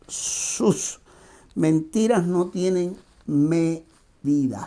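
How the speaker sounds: slow, emphatic headline read; spaced-out announcer-style headline; programme title announcement. Acted.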